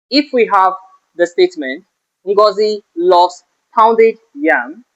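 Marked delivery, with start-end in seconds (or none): 2.3-4.8 slow teacher read, "pounded" lifted and drawn out; stress on pounded. Shown as a demonstration. Teacher showing students the stressed word, slow with pounded punched. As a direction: lean hard on "pounded", rising at the end. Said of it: "the emphatic word in this expression is pounded".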